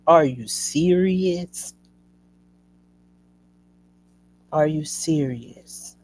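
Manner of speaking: slow, stretched-out incredulous question; drawn-out disbelief. Retold or imitated. Patient in pain reacting to hospital staff, slow disbelief. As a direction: drag each word out in disbelief.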